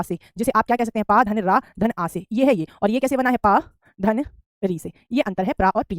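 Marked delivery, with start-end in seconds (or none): 1.1-2.3 slow spelling out. Shown as a demonstration. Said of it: "प्रा और पा में क्या अंतर". 3.4-4.9 slow spelling out. Shown as a demonstration. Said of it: "प्रा और पा में क्या अंतर".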